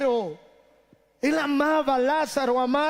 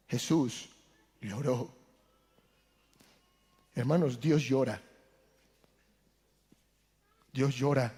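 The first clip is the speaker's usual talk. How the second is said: hushed solemn preaching; 8 semitones lower than usual. Acted. Preacher tells the congregation that Jesus wept, in a hushed, solemn voice. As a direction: drop to a hush as if telling something sacred.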